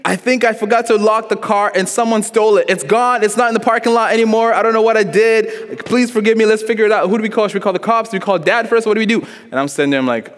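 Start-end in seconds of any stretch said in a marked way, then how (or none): 0.0-9.3 high, frantic pleading in imitation; mock distraught sister, words tumbling out in a high voice; Laura crying. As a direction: act out a panicked, tearful apology, pitched way up.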